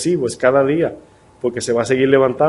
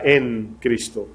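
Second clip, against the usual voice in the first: "en Cristo" slow and drawn out, each word weighted; "en Cristo" said slow and deliberate, softer; emphasized phrase; 3 semitones lower, 6 dB quieter, much slower than usual. Shown as a demonstration. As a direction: lean on "en Cristo" slowly and softly. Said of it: "yo enfatizaba esta palabra".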